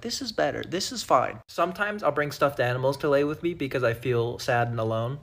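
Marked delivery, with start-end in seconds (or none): 0.0-1.4 soft, low and satisfied; mock contented murmur. Lying on the floor, content and quiet. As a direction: sigh it out like the floor is heaven.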